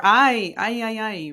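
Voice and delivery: mock exasperated interjection; exclaimed lament. Shown as a demonstration. Acts out exclamation ay ay ay.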